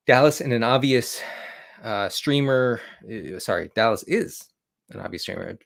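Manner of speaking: jittery and tripping over words; stumbling, over-caffeinated rush; too much caffeine. Real, not acted. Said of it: "the coffee is, is kicking in".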